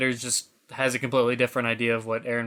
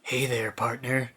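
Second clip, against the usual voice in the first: cowboy greeting; 3 semitones lower, 7 dB quieter than usual. Retold or imitated. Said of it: "gruff, like, scruffy voice".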